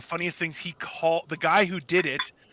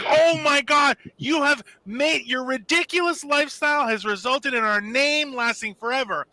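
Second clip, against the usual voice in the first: gushing with a slight shout on "you have made"; emotional family; 5 semitones higher than usual. Retold or imitated. Family overjoyed at son's fake record, hammed-up. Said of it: "His family is getting emotional".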